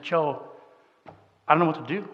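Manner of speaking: quiet, defeated confession; hushed despair, sinking away at the end; tearful, retold. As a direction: voice a brother close to tears, softly. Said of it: "his eyes filled with tears".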